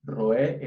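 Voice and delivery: "Roé" said very slowly, stress on é; drawn-out teaching "Roé"; Hebrew word repeated. Shown as a demonstration. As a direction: model "Roé" for the class at half speed. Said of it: "que se pronuncia roé".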